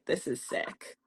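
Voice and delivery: hushed, whispered "This is sick."; whispered realization. Retold or imitated. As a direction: breathe it out as a horrified realization. Pivotal realization retold.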